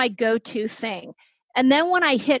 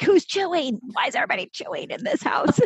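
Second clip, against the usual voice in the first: irritated; 6 semitones higher than usual. Retold or imitated. Retold irritated outburst at family.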